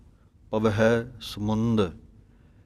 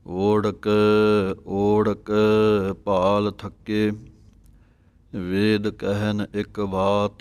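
slow, measured sacred recitation with drawn-out vowels; slow devotional Gurbani reading; scripture recitation; 3 dB louder, slower than usual. Shown as a demonstration. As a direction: recite each phrase deliberately, holding the long vowels.

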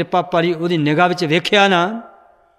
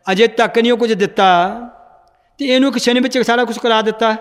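aggrieved disciple's complaint, lightly acted; mild acted anger. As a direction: build a touch of indignation as the grievances pile up. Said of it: "Mardana ਗੁੱਸੇ ਹੋਇਆ". (ਮਰਦਾਨੇ ਦਾ ਹਲਕਾ ਜਿਹਾ ਗੁੱਸੇ ਭਰਿਆ ਗਿਲਾ)

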